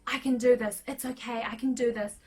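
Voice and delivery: firm retold pep talk to oneself; acted burst of determination; resilient self-encouragement. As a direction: talk yourself through it with resolve. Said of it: "this burst of resilience".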